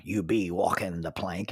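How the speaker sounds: low pirate-style West Country phrase; lightly put-on West Country pirate accent; West Country dialect. Shown as a demonstration. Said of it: "would substitute "be" for "is".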